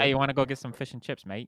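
playful, loud British caricature; attempted British accent. Shown as a demonstration. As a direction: ham up an amateur British accent. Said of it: "do you have a good British accent".

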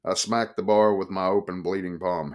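plain reading voice

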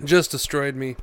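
hoarse from a cold; raspy, worn-out voice; gravelly voice. Real, not acted. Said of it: "my voice, uh, sounds gravelly because I've".

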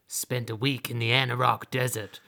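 adventurer back from the desert, hammed-up weariness; mock world-weary adventurer. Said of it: "they come back and they're like".

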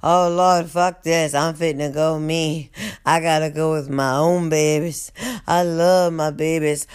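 a hint of a sighing old guard; weary guard. Guard leaving as the water rises, mild weary sigh. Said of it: "Miss Miles Thomas said".

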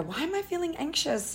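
imitating a fretting inner voice; mock anxious self-questioning. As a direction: play your old worried self. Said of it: "which I used to do and go".

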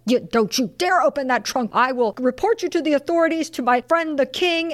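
indignant threat, acted out with rising pitch; angry. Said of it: "so angry about it".

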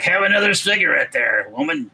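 a hint of a raspy smoker's voice, mocking. Mocking the smoky-voiced MTV host, lightly rasped. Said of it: "sound like a smoker".

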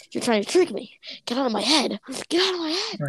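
mild retold scream, climbing in pitch; mock screaming. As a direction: build to a high, panicky mock scream without blasting it. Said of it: "he starts screaming".

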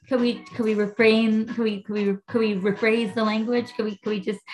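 mock-polite prissy request to the husband; prim gentle correction. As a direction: coax him sweetly into rephrasing. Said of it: "and I'm like".

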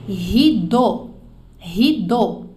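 rideau said hee-DOH, the eau as a pure O; French rideau. Shown as a demonstration. Teacher modelling rideau for Brazilian students. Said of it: "vamos pronunciar comigo?".

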